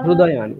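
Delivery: "হৃদয়ানি" said as hrudayani; "ru" pronunciation. Shown as a demonstration. Teacher repeating the correction, "হৃদয়ানি" with hru. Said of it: "আমরা রু বলবো".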